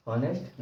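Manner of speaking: हॉनेस्ट with the H sounded; mispronounced honest. Shown as a demonstration. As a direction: quote the misreading हॉनेस्ट, H at the front. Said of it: "नहीं पढ़ेंगे".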